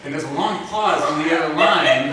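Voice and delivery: words pushed out between laughs; laughing through words. Real, not acted. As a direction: talk through the giggles. Still laughing while telling.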